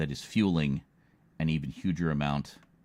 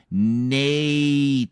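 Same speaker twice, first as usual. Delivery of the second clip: Native stretched very slowly, loud and higher; over enunciating; 6 semitones higher, 7 dB louder than usual. Shown as a demonstration. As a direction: drag Native out to one long word. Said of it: "let me say it slower".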